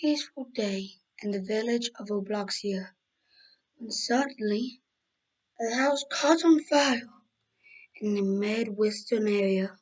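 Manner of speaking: slow, measured storyteller delivery; solemn scene-setting, drawn out phrase by phrase; dramatic story narration. Acted. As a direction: narrate a disaster tale with deliberate pauses.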